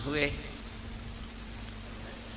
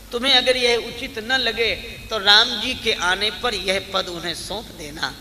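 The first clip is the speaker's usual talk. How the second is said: raised, louder discourse voice; emphatic preaching; 5 semitones higher, 6 dB louder than usual. Acted. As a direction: lift the voice to urge the point.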